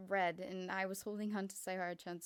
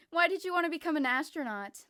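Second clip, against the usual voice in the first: teasing question; 7 semitones higher, 10 dB louder than usual. Acted. Kokichi asks teasingly.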